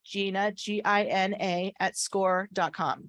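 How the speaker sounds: speech slurred by a retainer; wearing a retainer. Real, not acted. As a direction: talk around a dental retainer. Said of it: "I have a retainer that's makes me not quite as clear".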